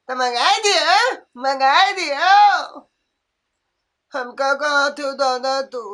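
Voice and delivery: a grumbling sick mother-in-law who moans and complains; lightly voiced ailing old woman.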